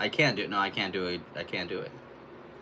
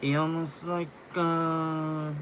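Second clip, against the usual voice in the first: higher British try-out; British accent attempt; 6 semitones higher, slower than usual. Shown as a demonstration. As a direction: feel out a British accent, pitched up. Testing the actor's accent.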